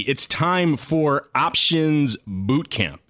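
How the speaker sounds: hammed-up drill instructor bark; drill sergeant. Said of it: "the first and last time you will hear me say anything like a drill instructor".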